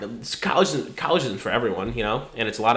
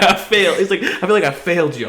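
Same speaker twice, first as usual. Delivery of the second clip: much higher, louder mock lament; hammed-up wailing dad; 8 semitones higher, 9 dB louder than usual. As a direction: overplay dad's despair for laughs.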